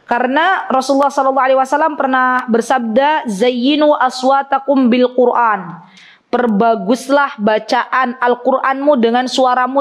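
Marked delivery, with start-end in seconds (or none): 3.3-5.8 slow, measured Arabic quotation; recited hadith. Shown as a demonstration. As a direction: recite it reverently and slowly. (kutipan hadis dibaca pelan)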